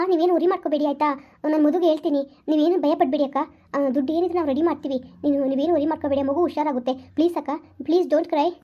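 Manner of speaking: calm her down gently over the phone; reassuring friend voice. Acted. Rashmi calms her sister on the phone.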